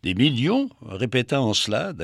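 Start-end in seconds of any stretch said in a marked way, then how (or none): 0.0-0.7 worried. Acted. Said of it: "inquiète".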